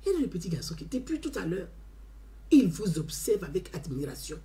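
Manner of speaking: softly murmured tip to the mayor; hushed aside. Retold or imitated. Narrator quietly tipping off the mayor, hushed. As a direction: lean in and say it low so the boy won't hear. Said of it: "je chuchote un peu".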